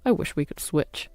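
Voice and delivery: resentful man grumbling sarcastically; snide husband. Acted. Husband sneers at sick wife.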